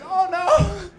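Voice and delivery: high, loud comic wail; mock panic. Hit man panicking after the crash, high mock wail. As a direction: wail it in exaggerated alarm.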